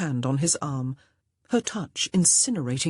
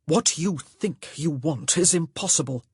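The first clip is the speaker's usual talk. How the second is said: brusque. Acted. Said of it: "he said brusquely".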